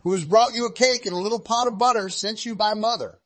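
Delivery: high, sweet put-on little girl voice; wolf pretending to be the child; wolf faking girl's voice. A narrator's reading. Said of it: "counterfeiting her voice".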